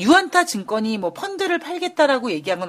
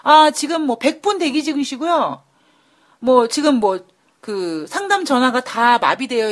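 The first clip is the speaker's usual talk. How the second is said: infomercial; 3 semitones higher, 3 dB louder than usual. Pretend. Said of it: "마치 이런 쇼호스트처럼".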